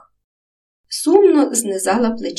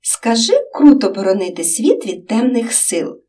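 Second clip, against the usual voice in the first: joyful; 3 semitones higher, 4 dB louder than usual. Acted. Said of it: "радо підхопив Ромчик".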